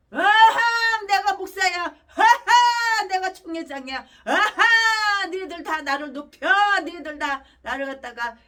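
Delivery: hammed-up gloating pastor with laughing cries; mock a pastor crowing for money and titles; sneering parody of a pastor demanding honours; mocking greedy pastor. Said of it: "이지랄하고".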